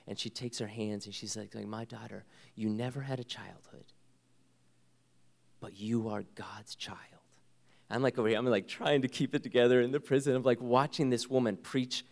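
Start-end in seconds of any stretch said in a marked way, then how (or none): 1.7-7.0 tender mother. Retold or imitated. Mother comforting daughter, retold.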